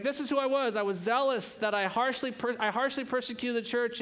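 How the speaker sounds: high, emphatic bragging; acted self-important boast. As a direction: show off your record proudly. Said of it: "it's like these boasts".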